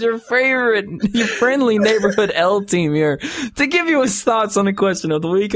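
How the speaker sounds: reading through real laughter; high, laughing read of an email; laughing while reading. Real, not acted. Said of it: "I can't quit fucking laughing".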